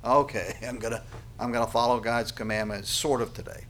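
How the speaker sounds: half-hearted, noncommittal mock promise with a small laugh; lackadaisical. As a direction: shrug it off as you agree. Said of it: "lackadaisically go".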